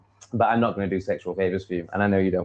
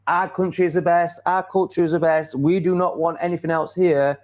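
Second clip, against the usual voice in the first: mock patriotic insistence; 6 semitones higher than usual. Voices patriotic country rejecting outsiders.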